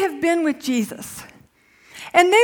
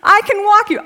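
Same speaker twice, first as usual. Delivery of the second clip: mock exasperated mom; 3 semitones higher, 4 dB louder than usual. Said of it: "And I'm like".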